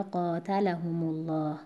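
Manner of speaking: قاتلهم الله with the stress of قاتلهم as if م had sukun, slow; slow recitation demo. Shown as a demonstration.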